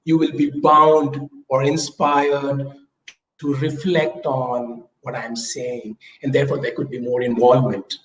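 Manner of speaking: slow and low with pauses; slow, paused delivery. Shown as a demonstration. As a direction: draw the listener in slowly. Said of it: "when I'm pausing in between".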